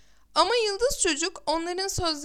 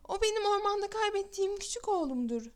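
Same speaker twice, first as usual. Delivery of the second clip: higher, tearful joy at finding her son; crying for joy; 5 semitones higher than usual. Acted. Mother recognizing her lost son's cloak, tearful joy. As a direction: let the happy tears break through the words. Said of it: "sevinçten ağladı".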